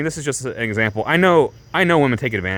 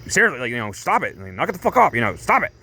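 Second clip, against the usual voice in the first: mock freak-out. Rufus pleading with Tifa to stop, mock freak-out. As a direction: mimic someone losing composure, voice jumping up. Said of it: "freaking out".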